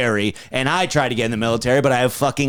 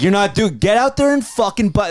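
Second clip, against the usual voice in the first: pushy dad voice; 6 semitones higher than usual. Retold or imitated. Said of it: "When people are like".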